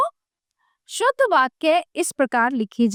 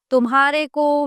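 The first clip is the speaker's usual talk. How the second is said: तुम्हारे को pointed out with emphasis; stressing the wrong words; 2 semitones higher than usual. Shown as a demonstration. Teacher pointing out the wrong phrase with emphasis. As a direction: mark तुम्हारे को as the mistake. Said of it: "शब्द अशुद्ध है".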